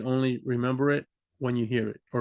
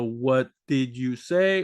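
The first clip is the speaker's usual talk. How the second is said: slow full form; 3 semitones lower, much slower than usual. Shown as a demonstration. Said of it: "understand the".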